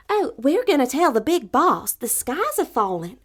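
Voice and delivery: high, loud, breathless hen; alarmed little hen. Acted. Little hen telling the rooster the sky falls, high and loud. Birds announce the falling sky.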